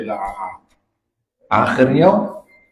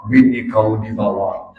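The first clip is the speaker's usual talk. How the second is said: lower, calm jinn reply; lightly voiced jinn, lower; 5 semitones lower than usual. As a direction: answer flatly from deep in the well. Jinn answers husband.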